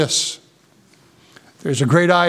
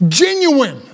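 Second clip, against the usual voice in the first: "genuine" set apart, high then falling; "genuine" said alone with raised pitch and weight; emphatic genuine; 5 semitones higher than usual. Shown as a demonstration. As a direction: stress "genuine" as the key word. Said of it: "The emphasis is on the word".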